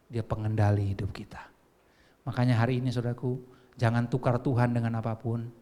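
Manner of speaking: usual speaking voice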